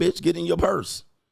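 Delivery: creaky, fed-up, impatient, exasperated tone. Acting out an impatient thought at a store register: imitating inner annoyance. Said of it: "you looking around like".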